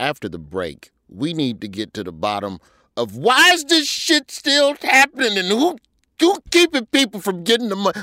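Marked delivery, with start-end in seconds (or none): 3.0-8.0 full, loud yelling with rising, swooping pitch. Speaking to the ladies before the break, yelling. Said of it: "I'm sorry for yelling".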